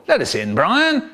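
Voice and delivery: lightly voiced cheerful dad; cheery. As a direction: call cheerily through the door. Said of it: "says my dad cheerily".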